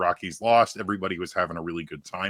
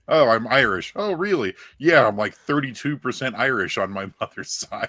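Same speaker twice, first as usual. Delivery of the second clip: generic white person; 4 semitones higher, 5 dB louder than usual. Retold or imitated. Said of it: "just a general white person thing".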